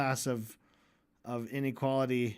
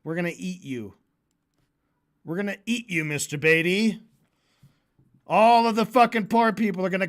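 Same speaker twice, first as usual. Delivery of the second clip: mock threat; 3 semitones higher, 5 dB louder than usual. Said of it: "how about this?".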